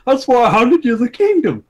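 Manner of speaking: king losing patience loudly; loud exasperated king. A narrator's reading. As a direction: bark back at the son. Old king's angry reply continues.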